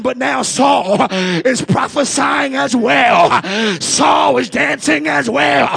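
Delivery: rising, rhythmic preacher's call; fiery preaching. Acted. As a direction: preach it to the congregation. Preaching at full force.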